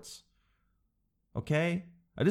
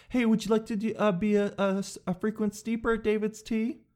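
higher, bright tea-shop clerk voice; eager cashier fumbling the offer; chirpy clerk pitch; 8 semitones higher than usual. Retold or imitated. Tea shop clerk offering rewards, chirpy and high. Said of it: "Listen to how I say no".

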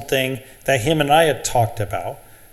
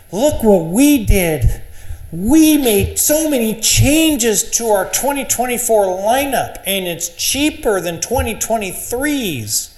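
mocking manufacturer ad voice; 7 semitones higher than usual. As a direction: ham up a glossy ad claim.

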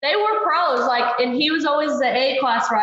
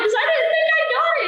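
mock tearful; much faster than usual. Retold tearful self.

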